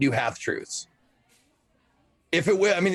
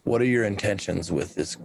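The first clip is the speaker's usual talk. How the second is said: stern interrogation; 6 semitones lower than usual. Acted. Character interrogating the newcomer.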